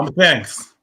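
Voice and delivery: laughing. Real, not acted. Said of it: "Yo, what?".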